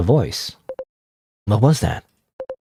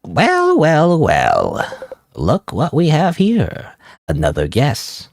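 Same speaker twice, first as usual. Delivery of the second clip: high, drawn-out clown voice; sly clown drawling slowly; 4 semitones higher, much slower than usual. Acted. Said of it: "What, what's a clown voice?".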